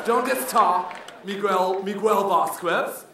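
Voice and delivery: put-on slow clumsy gringo accent; gringa teacher. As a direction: butcher the boy's name like a teacher. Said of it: "teacher mangling a name".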